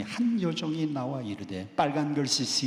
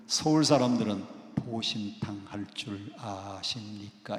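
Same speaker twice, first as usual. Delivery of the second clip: polite Seoul question, slowing and softening at the end; Seoul standard speech; 6 semitones lower than usual. Shown as a demonstration. Preacher models how Seoul people ask, in polite standard Seoul speech. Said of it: "이렇게 물어야 되는데".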